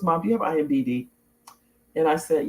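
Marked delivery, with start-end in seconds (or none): 0.0-1.1 quick, offhand retold question; casual question. Son asking his mom about her credits page, casually. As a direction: toss it out casually in passing. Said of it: "he said it really casually".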